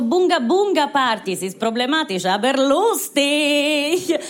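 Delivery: hammed-up flair. Hammed-up punchline about Italian parties.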